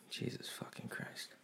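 exasperated whisper under the breath; whispered curse. Real, not acted. Muttering to himself about store staff, whispered. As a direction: breathe it out unvoiced.

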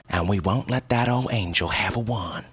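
ordinary delivery, nothing marked

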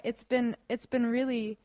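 wired on coffee, tripping over words; jittery, restarting the sentence; too much caffeine. Real, not acted. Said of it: "my brain is just wired on coffee".

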